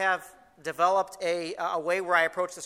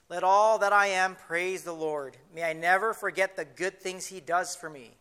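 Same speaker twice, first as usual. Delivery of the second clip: scripture reading. Acted. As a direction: read it aloud reverently, savoring each line. Reads New Living Translation aloud.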